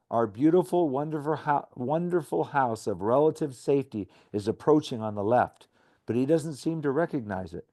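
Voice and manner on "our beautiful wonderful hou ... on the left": normal talking voice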